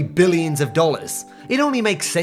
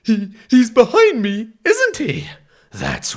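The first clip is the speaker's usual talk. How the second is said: mock fright; 5 semitones higher, 4 dB louder, slower than usual. Mock fear gag.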